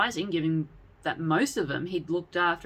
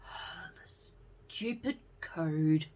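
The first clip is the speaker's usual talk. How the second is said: chuckling; 7 dB quieter, much slower than usual. A narrator's reading. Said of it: "Jessie chuckled".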